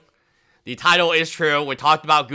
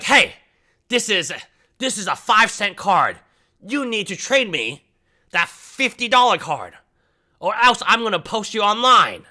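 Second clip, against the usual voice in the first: put-on pushy kid; 6 semitones higher than usual. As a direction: play the brat threatening to post you. Kid demanding trade up.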